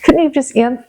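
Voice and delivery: exasperated retold appeal to God; frustrated plea. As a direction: ask why with pent-up frustration. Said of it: "just being so frustrated".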